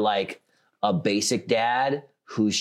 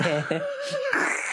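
failed giggle. Shown as a demonstration. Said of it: "But I can't do the laugh".

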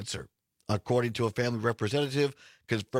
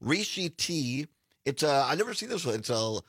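hoarse, smoke-scratched raspy voice. Real, not acted. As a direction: talk through a raspy throat. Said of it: "I apologize for the raspy voice".

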